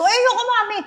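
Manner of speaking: high giggly pout; whiny refusal. Retold or imitated. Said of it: "Sabi ko".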